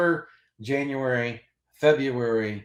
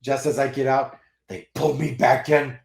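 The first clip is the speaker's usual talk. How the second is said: Al Pacino; 3 dB louder than usual. Retold or imitated. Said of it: "where Al Pacino says".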